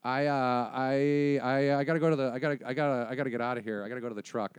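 stammering, repeating himself nervously; mildly panicked, stumbling excuse to leave; spooked kid. Acted. Spooked kid backing away from a body, nervous stammer.

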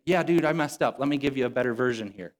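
breezy, casual pretend God owning up; mock apologetic God. God as the preacher imagines him admitting a mistake, mock casual. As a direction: shrug it off like a buddy. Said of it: "No, God doesn't say".

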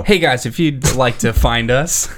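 slow radio announcer voice; old radio voice. Acted. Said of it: "I turn the old radio voice on".

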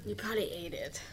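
whispered accusation; whispering. Acted. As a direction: whisper it as a sly aside. Quick aside against the thief.

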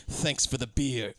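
slow, deliberately courteous mock farewell; imitated icy politeness, slowly; pointedly polite. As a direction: draw out the thanks with veiled hostility. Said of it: "hypothetically polite the entire way through".

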